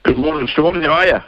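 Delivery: hoarse, croaky from a cold; rough sick voice with covid. Real, not acted. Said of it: "my croaky voice".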